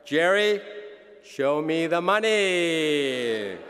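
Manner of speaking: loud, slow movie-line delivery; Jerry Maguire quote. Retold or imitated. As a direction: belt out the famous line. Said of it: "As Rod said at Jerry Maguire".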